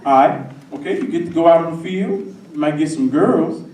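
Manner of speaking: loud, pushy mock coach; pitching football coach. Coach recruits him to play, loud sales pitch. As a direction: sell it loudly in a coach's voice. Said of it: "the coaches, they usually came in pairs".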